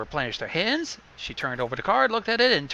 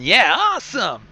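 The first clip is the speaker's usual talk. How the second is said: higher, louder happy cry; excited cheer; 7 semitones higher, 6 dB louder than usual. Acted. Rainbow cheering the winning card, high and loud. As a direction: throw it out with glee. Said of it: "Rainbow broke out laughing".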